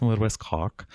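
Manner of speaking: a light imitation of a West Cork accent on "Oh, West Cork". Showing the audience how West Cork people talk, mild West Cork accent. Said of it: "They, they speak like this".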